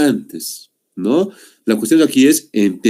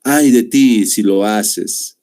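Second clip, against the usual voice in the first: threatening; 2 semitones lower, much slower than usual. Shown as a demonstration. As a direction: warn them slowly like a stern mother. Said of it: "de amenaza".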